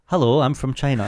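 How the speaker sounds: lightly put-on Chinese accent; a hint of a Chinese accent; mock Chinese accent. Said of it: "I want a Chinese accent".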